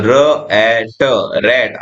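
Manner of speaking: र ए ट sounded slowly, one sound at a time. Shown as a demonstration. Teacher blending rat slowly for young learners. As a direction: break rat into slow sounds. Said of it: "र का sound आता है आर से".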